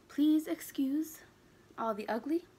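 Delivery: hushed, embarrassed aside; whisper. Real, not acted. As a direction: whisper the apology like a secret. Joking apology for messy face.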